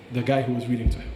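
usual speaking voice

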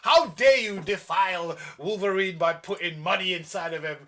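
hammed-up indignant how dare you; mock offended huff; mock outrage. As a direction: play at being scandalised, laughing through it. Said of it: "I was like".

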